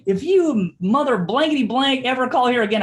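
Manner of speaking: high, loud mock yell of an angry caller; retold threat. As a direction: hammer out the threat like the furious son. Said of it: "he goes".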